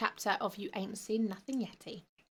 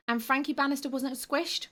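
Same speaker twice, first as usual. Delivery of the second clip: whimpering; 6 semitones higher than usual. Acted. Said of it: "Grobrad whimpered".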